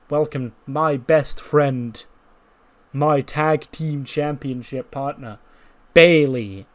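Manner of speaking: drawn-out announcer intro; slow ring introduction. Acted. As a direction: stretch every word like a ring announcer. Cora introducing Bayley.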